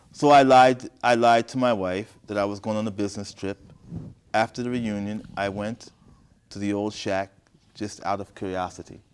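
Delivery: deliberate, projected story reading; story narration. A narrator's reading. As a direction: read each phrase out clearly, pausing between. Reads the story aloud.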